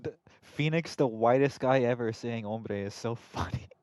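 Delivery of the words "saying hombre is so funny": laughing whisper. Real, not acted. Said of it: "laughing whisper".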